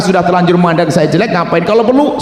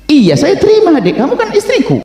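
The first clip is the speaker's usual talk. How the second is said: laughing husband; 12 semitones higher than usual. Acted. Husband reassures wife, laughing.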